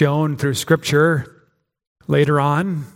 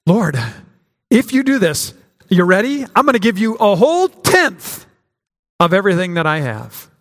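eager, pitched-up bargaining with God, hammed-up; mock Jacob bargaining; 4 semitones higher than usual. Preacher mocking Jacob's tithe offer to God, eager and higher. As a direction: sell the deal like a proud trader, half mocking. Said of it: "how inadequate is his response".

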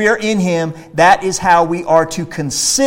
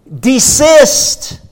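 higher and louder single-word order; stern command; 8 semitones higher, 6 dB louder than usual. Acted. Preacher ordering believers to quit the world, stern loud command. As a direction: stop them in their tracks.

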